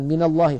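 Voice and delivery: "من الله" linked as "mina-llahi"; fatha on nun. Shown as a demonstration. Teacher recapping the rule, "من الله" joined with fatha. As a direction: put an a-vowel on the nun of من. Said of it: "حرك بالفتح".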